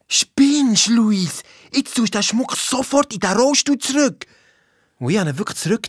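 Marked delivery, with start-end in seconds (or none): 0.1-4.3 retold scolding, pitched higher. Girl scolding Luis to return the jewels, retold scolding. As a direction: tell him off sharply, half acted.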